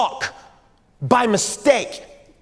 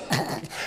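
snorting laugh imitation; 12 dB quieter than usual. Shown as a demonstration. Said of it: "some people snore when they laugh".

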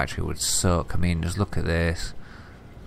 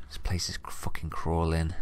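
whispering; 6 dB quieter than usual. Real, not acted. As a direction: whisper it so nothing hears. Creepy place, whispering.

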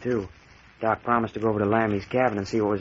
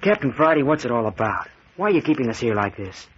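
louder, pressing demand; anxious outburst; 4 dB louder than usual. Acted. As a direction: blurt it out, demanding answers from the captain. Young man confronts the captain.

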